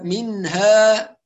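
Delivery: "منها" slowly with held n and full vowels; measured ن. Shown as a demonstration. Teacher introduces the word, measured ن. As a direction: give the n of "منها" its full time. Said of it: "ننتبه إلى الحركات وإلى زمن النون الساكنة".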